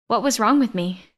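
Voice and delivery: plain reading voice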